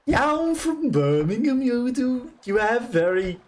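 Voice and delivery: high, exaggerated Brummie twang; attempted Brummie accent. Shown as a demonstration. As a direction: have a shaky go at Yam Yam Brummie. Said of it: "not even working as a Brummie accent".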